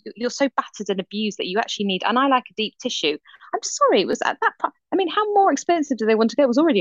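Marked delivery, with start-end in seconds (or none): 3.5-6.8 indignant outburst. Real, not acted. Indignant about massage prices.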